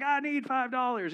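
loud, high eager cry; desperate contestant. Retold or imitated. Contestants begging for the prize money, loud and high. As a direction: blurt it like a greedy contestant. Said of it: "everybody's like".

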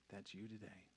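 low, very soft altar call; near-whispered invitation, low and solemn; hushed preaching. Real, not acted. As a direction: speak tenderly with long, weighty pauses. Hushed altar call after climax.

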